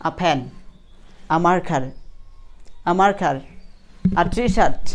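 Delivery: "a" said as ah joined to the noun; article as "aa". Shown as a demonstration. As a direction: model "a" as ah in each example phrase. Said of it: "এ যদি একা থাকে তাহলে আ বলবেন".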